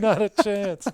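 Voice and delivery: mock-firm refusal to share questions early; playful refusal. Real, not acted. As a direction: turn him down with a grin. Teasing refusal of question prep.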